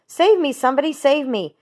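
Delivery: high, loud terrified begging; a pig begging for his life; panicked pleading. A narrator's reading. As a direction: Wilbur cries out for rescue. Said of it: "screamed Wilbur".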